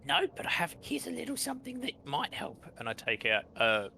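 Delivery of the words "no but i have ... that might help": sweet high voice. Acted. Cleric offering potion in character.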